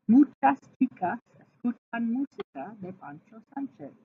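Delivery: every ch in "Muchas chicas escuchan música de Pancho Sánchez" crisp like English church; careful ch tongue twister. Shown as a demonstration. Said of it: "ch tongue twister demo".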